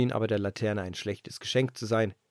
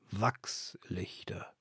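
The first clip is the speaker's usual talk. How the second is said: whisper; 4 semitones lower, 7 dB quieter, much slower than usual. A narrator's reading. Lantern sighs at the idea.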